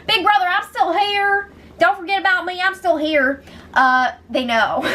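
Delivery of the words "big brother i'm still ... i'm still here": put-on high, pleading kid-sister whine; mock whine of a sibling left out; whiny little sister. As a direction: beg not to be forgotten. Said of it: "She's like".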